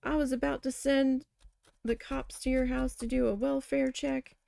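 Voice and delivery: imitated scolding, starting high and easing down; mock yelling. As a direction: retell mom's telling-off with a mild yell. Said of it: "'Cause she was yelling".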